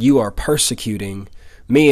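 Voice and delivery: "me" set apart and weighted at the end; stress on me. Shown as a demonstration. Preacher correcting church, people, children to "me", stressed. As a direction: lean on "me" as the point of contrast. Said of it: "He didn't say".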